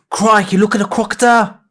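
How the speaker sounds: high, loud mock Australian croc-hunter cry; Australian accent, exclaiming high and loud like a croc hunter spotting a crocodile; hammed-up Australian. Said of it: "I think crikey's New Zealand".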